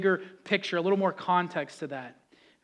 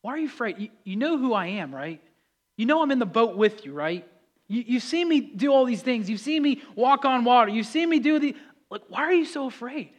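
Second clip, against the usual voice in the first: higher, livelier mild reproach; exasperated but friendly; incredulous questioning; 4 semitones higher than usual. Acted. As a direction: press them as if it should be obvious. Acted Jesus, incredulous repeat questioning.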